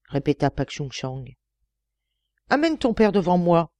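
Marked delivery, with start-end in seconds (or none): 2.5-3.7 stern. Acted. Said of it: "interrompit sévèrement Ishin-Ho".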